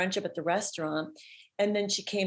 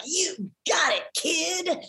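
much higher, louder, a slower brassy approval; imitating the manager; 10 semitones higher, 3 dB louder, much slower than usual. Talent manager signing the young singer, much higher and louder. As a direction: seal the deal with a punchy verdict. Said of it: "And she was like".

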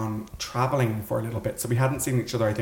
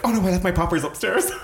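laughing; 8 semitones higher, 4 dB louder, faster than usual. Retold or imitated. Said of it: "And I was like".

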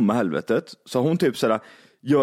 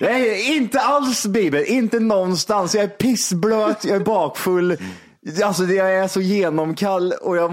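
a half-joking furious reply to the pop star; mock angry retort; 5 semitones higher than usual. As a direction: snap back half laughing.

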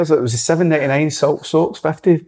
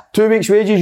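furious threat; 10 semitones higher than usual. Retold or imitated. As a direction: bark "two weeks' wages" like a raging boss. Manager fines furious player.

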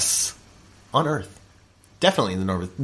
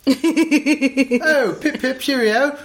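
put-on a quick stab at a posh British accent; hammed-up British, light and breezy; mock British accent; much slower than usual. Jokey British accent for a comedy podcast bit. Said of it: "should we do it in a British accent".

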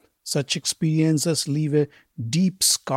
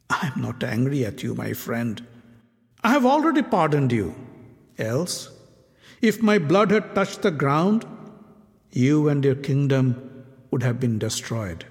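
gentle. Acted. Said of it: "with a faint smile".

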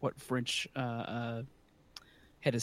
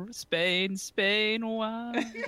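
mocking dumb voice; 8 semitones higher, much slower than usual. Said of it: "I was like".

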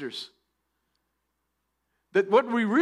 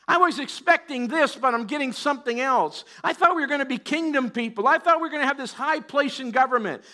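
higher-pitched, let-down disciple complaining; mock protest; 5 semitones higher than usual. Preacher voices disciples expecting high government places, mock protest. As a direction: complain as if your big hopes were dashed.

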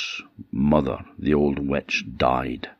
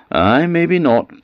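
Bruni voice; 13 semitones higher, 6 dB louder, slower than usual. Acted. Bruni voiced in a told tale.

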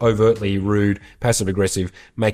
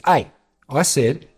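Sir Dominic; 4 semitones higher, slower than usual. Retold or imitated. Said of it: "he says".

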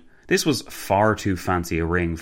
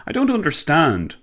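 higher-pitched puzzled interjection; piping up; 9 semitones higher, 4 dB louder than usual. A narrator's reading. Passenger breaking into the pranksters' chat, piping up. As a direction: pipe up in confusion. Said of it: "Walter piped up".

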